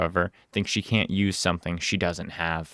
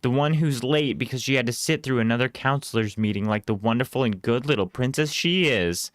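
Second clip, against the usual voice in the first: sarcastic; 4 semitones higher than usual. Acted. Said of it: "I say sarcastically".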